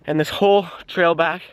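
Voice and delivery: winded from the uphill walk; out of breath. Real, not acted. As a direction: talk while catching your breath. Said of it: "give me a hard time for being out of breath".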